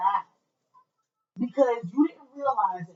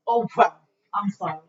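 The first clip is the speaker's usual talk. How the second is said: mock sarcastic sorry; 2 semitones lower, 5 dB louder than usual. Shown as a demonstration. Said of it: "are you gonna feel that apology from me".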